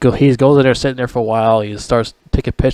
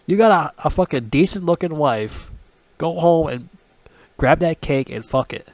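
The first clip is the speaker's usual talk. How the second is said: higher, fast, disbelieving; exasperated rant; 6 semitones higher, 4 dB quieter than usual. Retold or imitated. Vlogger scolds hero for ignoring wife, higher and exasperated. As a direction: throw up your hands at him, higher. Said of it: "I'm like".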